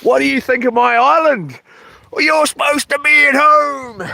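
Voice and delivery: high mocking imitation of the doctor's nagging; sing-song mimicry of a bossy doctor; teasing parody of the doctor. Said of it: "'cause I was like".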